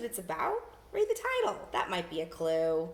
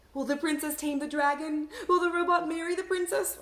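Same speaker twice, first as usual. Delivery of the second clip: higher, louder wondering questions; higher excited what-ifs; eager predictions; 8 semitones higher, 5 dB louder than usual. Shown as a demonstration. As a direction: wonder aloud with rising excitement. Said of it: "predict what might happen".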